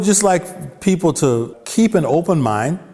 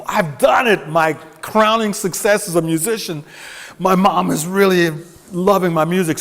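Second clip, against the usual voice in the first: proud excitement; 5 semitones higher than usual. Retold or imitated. Retold proud self quote.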